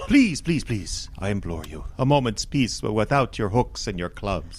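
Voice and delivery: lightly voiced, courteous creature pleading; a hint of a genteel merman. Merman asking the fishers for peace, mild courtly plea. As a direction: beg politely, almost theatrical.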